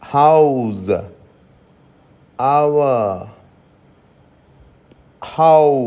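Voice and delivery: "హౌస్" gliding a to u; au diphthong demo. Shown as a demonstration. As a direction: stretch "హౌస్" from a into u. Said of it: "ఓయు దగ్గర ఉండేటటువంటి sound ఇది". ("హౌస్" ను అ నుండి ఉ కి జారుతూ పలకండి)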